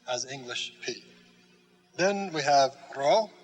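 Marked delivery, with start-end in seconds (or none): 2.0-3.3 "ro" with a lightly rolled R. Shown as a demonstration. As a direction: roll the R of "ro" a little. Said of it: "notice I try to roll that".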